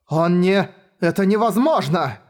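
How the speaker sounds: high, disbelieving outcry; cried out. Acted. Woman hearing the boy crossed the fence, high shocked outcry. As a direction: cry it out in shock. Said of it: "выкрикнула Навинья".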